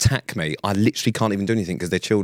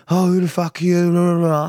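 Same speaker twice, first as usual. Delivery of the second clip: put-on cheeky kids' retort; 6 semitones higher, 4 dB louder than usual. Kids confronting the man outside his house, mocking retort. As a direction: imitate mouthy kids answering back. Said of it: "They then go".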